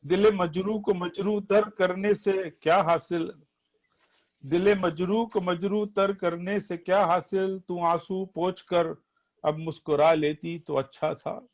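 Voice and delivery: poetry recitation. Acted. Reciting nazm verses.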